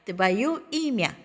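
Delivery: very slow, stress falling on имя; slow model repeat. Shown as a demonstration. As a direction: repeat твоё имя slowly. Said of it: "너의 이름". (천천히 반복)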